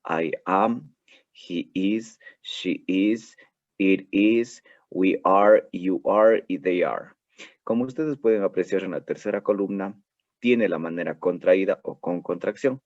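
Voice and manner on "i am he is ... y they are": "I am, he is, she is, it is, we are, you are, they are" said as full separate words; full forms modelled. Shown as a demonstration. Teacher models full forms for students, careful and clear. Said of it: "Sin la contracción sonaría".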